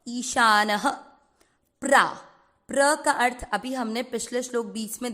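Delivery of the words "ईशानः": ईशानः ending in a soft breathy ह; visarga as soft ह. Shown as a demonstration. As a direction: let the visarga sound as a light ह after ईशानः. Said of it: "विसर्ग को पढ़ना है ह".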